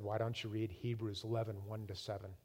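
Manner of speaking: low, very soft retold voice of God. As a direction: drop low and quiet, gently instructing. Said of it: "again, in a soft voice".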